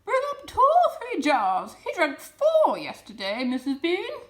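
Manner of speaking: high, loud call from upstairs; calling back. A narrator's reading. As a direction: shout it down the steps. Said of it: "the other voice called back".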